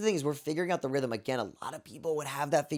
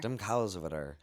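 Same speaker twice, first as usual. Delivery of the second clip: imitated Newfoundland accent; 4 semitones lower, 5 dB quieter than usual. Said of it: "That's pretty good".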